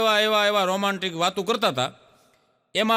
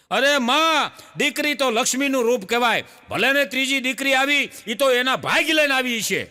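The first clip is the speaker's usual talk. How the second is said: neighbour women consoling; 5 semitones higher than usual. Acted. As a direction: comfort the old woman, like fussing neighbours. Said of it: "એમ બધી માવડિયું બોલવા મળી".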